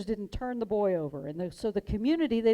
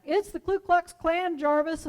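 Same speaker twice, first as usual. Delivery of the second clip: higher, louder, slow call; yelled back; 8 semitones higher, 5 dB louder than usual. Retold or imitated. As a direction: call out across the cell block. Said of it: "the inmate yells back".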